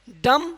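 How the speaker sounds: a clean "डम", closing on the m; silent B in डम. Shown as a demonstration. Teacher answering how to read it, "डम" with silent b. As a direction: say "डम" without any b at the end. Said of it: "इसको पढ़ेंगे".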